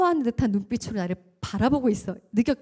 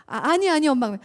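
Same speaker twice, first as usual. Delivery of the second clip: embarrassed son; 4 semitones higher, 5 dB louder than usual. Retold or imitated. Son refusing to be spoon-fed.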